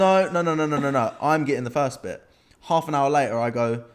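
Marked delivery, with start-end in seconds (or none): 0.0-2.2 insistent retold argument. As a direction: insist you get the first bit, half laughing. Arguing over who gets the tattoo.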